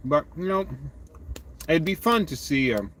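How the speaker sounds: talking with a mouthful of ice cream; mouth full. Real, not acted. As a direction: chew and talk at once, words muffled. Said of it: "And I'm talking with my mouth full here".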